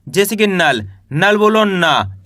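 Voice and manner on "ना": "ना" as dental n with long aa; model pronunciation. Shown as a demonstration. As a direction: teach "ना" as a clear naa. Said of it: "इस तरीके से पढ़ना है".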